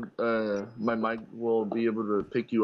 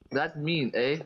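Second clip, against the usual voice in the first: mock Canadian; 3 semitones higher, slower than usual. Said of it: "they're too nice to, like, even be like".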